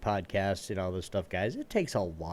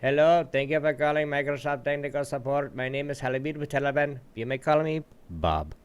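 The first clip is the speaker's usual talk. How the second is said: tech support agent impression; 3 semitones higher than usual. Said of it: "I have that down to a peck".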